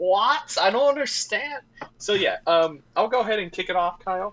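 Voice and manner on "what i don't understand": put-on elderly New York grandmother voice, pitched up. Joking with Kyle before kicking off the show, old New York grandmother voice. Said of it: "like an old New Yorkian grandmother".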